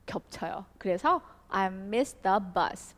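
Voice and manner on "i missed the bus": "missed the" run together, "mist ab as", slow; linked pronunciation. Shown as a demonstration. Teacher showing students how the words link together. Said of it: "바로 연결해서 읽어주시면 돼요".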